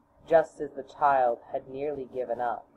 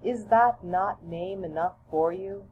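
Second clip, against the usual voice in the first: higher, lightly voiced mother; gently teasing mother, pitched up; mother's voice; 4 semitones higher than usual. Mother gently chides her child, a lightly higher voice. Mother's answer, same as father's.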